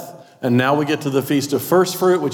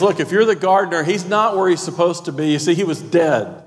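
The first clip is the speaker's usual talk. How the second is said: higher, worried woman at the empty tomb; pleading, a little panicked; Mary asking the gardener, lightly voiced and anxious; frantic Mary; 4 semitones higher than usual. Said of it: "What she's saying is".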